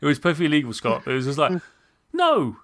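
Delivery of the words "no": high-pitched mock protest; yelling at screen. Player arguing with the game, high mock yelling. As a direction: re-enact an exasperated yell at the game. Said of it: "me yelling at the screen".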